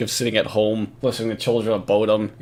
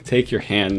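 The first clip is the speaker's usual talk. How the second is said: slow mock reading; 3 semitones lower, slower than usual. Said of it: "He doesn't want to read the sexual part".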